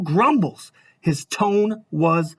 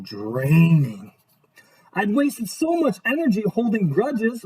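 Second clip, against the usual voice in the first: storybook narration. A narrator's reading. Reads picture book aloud.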